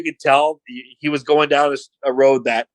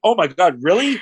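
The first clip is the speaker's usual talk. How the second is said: higher-pitched mock amazement; super sarcastic; 5 semitones higher than usual. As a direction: feign being stunned by the news. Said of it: "And he's super sarcastic".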